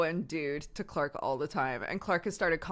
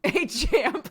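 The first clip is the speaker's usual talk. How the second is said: "Hey, Champ" in a mock American baseball dad voice, higher and louder; American dad greeting; 10 semitones higher, 6 dB louder than usual. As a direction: play the hearty US dad. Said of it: "That one's so American".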